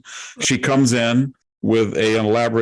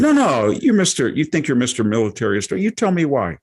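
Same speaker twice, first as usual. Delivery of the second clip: mock challenge, jumping high at start and end; imitated scornful confrontation; insulting; 4 semitones higher than usual. Visitor challenging him as a militarist, mock insulting. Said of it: "started kind of being insulting".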